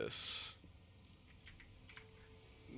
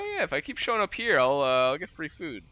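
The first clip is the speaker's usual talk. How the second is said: cat's inner voice; 4 semitones higher, 5 dB louder than usual. Retold or imitated. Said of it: "They're like".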